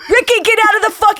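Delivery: mock Boston mother shouting at a toddler; Boston mom yelling. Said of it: "I saw a woman yell at her toddler in Boston".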